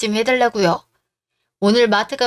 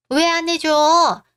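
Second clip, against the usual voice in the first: higher, slow, indignant cry; outraged demand; 6 semitones higher, much slower than usual. Acted. Mother scolding daughter-in-law for not feeding her son, high slow indignation. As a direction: stretch it out in maternal outrage.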